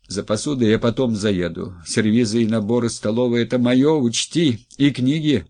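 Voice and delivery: wife packing to leave, feverishly listing her things. Acted. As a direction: rattle off demands feverishly. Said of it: "лихорадочно проговорила она".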